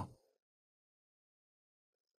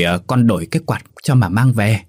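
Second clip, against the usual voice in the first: mock wail. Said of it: "giả giọng than trời rồi kêu lên".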